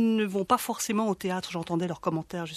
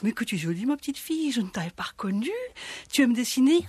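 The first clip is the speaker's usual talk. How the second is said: honeyed, coaxing predator voice; sugary voice; 4 semitones higher than usual. Acted. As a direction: sweet-talk the little girl. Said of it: "lui parle avec sa voix doucereuse".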